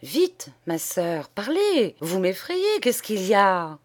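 broken up by fear, urgent; jerky, frightened voice. Acted. Frightened priest pressing the nun to speak, halting. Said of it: "d'une voix saccadée".

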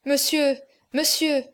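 a desperate mother calling out; anguished cry. A narrator's reading. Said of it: "s'écria la pauvre mère".

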